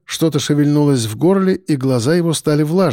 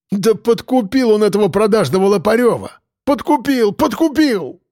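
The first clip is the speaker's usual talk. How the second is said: rising high, insistent repeating; a grieving father hammering the accusation home; like an incantation; 7 semitones higher than usual. Acted. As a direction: chant the word again and again, fixated. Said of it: "повторял он как заклинание".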